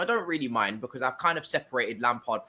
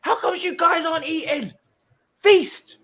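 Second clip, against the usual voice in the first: squeaky mocking commenter, much higher; 14 semitones higher, 5 dB louder, slower than usual. Viewers in the comments demanding a feast, voiced much higher and mocking. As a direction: mimic the fans' demand, then shout feast. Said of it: "you've been in the comments saying".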